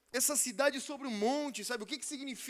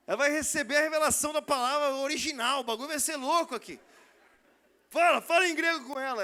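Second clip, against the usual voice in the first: rising to an excited, louder push; egging his friend on, getting louder; hyped-up retelling; 6 dB louder than usual. Retold or imitated. Friend urging him to speak Greek to the girl, excited and loud.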